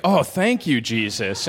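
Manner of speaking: mock-excited thanks, pitch up on oh; a hammed-up show of gratitude; fake excitement. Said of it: "You'd have to pretend to be all excited".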